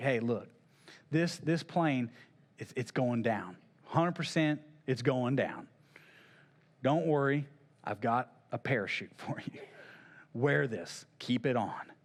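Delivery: soft, secretive half-whisper under the breath. Retelling a flight attendant warning a passenger: acted half-whisper. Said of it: "and he's whispering".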